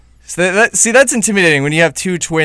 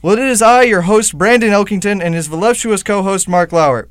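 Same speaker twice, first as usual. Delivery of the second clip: theatrical intro, pitch swinging up on the questions; show-opening announcer; 3 semitones higher than usual. Acted. Host opens the radio show with a mock-dramatic announcer delivery. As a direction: grandly unveil the show and its hosts.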